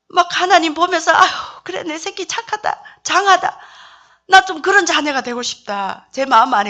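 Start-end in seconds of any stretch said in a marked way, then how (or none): 1.1-6.1 doting God's praise. Pretend. Imagining God's delighted praise.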